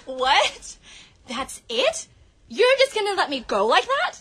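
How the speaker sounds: put-on hurt girlfriend. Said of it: "start off this little acting thing".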